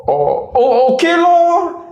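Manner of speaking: high, reluctant "okay lor"; grudging Singlish resignation; sulky giving in. Retold or imitated. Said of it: "Then you go like".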